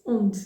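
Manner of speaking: "onde" said as ond, the final e dropped; mute final E. Shown as a demonstration. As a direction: end "onde" on the consonant. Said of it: "you almost only hear the consonant".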